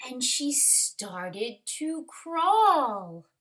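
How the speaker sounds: measured, expressive picture-book reading; story narration. A narrator's reading. Teacher reads a snail story to kindergarteners, expressive narration. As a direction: read it to little ones, pausing after phrases.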